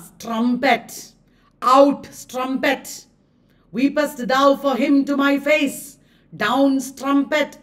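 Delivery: slow, stressed scorn, lightly acted; Othello's rebuke. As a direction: spit out strumpet with disdain. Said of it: "Othello is calling Desdemona".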